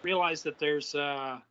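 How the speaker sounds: mic clipping, distorted voice. Real, not acted. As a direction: voice breaking up on a bad mic. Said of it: "Your, uh, voice is, uh, clipping out a little bit".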